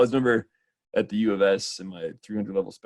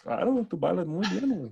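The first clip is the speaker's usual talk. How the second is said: teasing; 9 semitones higher, 3 dB quieter than usual. Acted. Teasing in a high voice.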